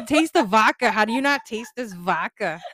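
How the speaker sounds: mock outrage, can't believe she can't taste it; incredulous loud exclaim. Friend at dinner shouting she can taste the vodka, incredulous. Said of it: "I was like".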